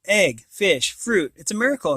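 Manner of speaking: bright, rising delight at the food; mama marvels at a miracle; mild excited exclaim. Acted. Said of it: "exclaimed Mama".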